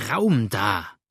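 forceful clearing call; shouted order. A narrator's reading. Virginian pushing into the crowd, forceful shouted order. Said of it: "schrie in diesem Augenblicke".

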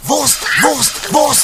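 loud teasing shout. Acted. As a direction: yell the word to provoke.

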